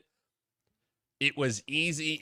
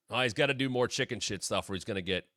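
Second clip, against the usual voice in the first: mock Undertaker; 3 semitones lower, 4 dB quieter, faster than usual. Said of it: "I heard what Undertaker said".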